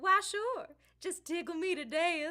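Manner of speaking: put-on Southern-accented small creature voice. A brownie at santa's workshop answers a visitor's request: southern accent. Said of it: "what are you doing in the North Pole with a southern accent?".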